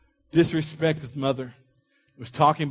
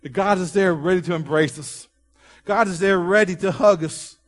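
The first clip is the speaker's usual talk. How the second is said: ringing, emphatic preaching with raised voice; raised voice, driving each promise home; 4 semitones higher, 4 dB louder than usual. Real, not acted. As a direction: preach it out in short, punchy repeated phrases.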